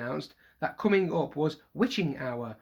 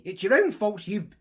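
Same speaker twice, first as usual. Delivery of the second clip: stern; 5 semitones higher, 6 dB louder than usual. Acted. Mother ordering sons.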